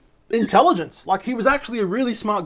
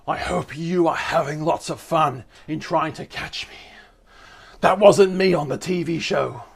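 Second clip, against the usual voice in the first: serial killer voice. Acted. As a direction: read it like a creepy serial killer. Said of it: "put on a serial killer voice".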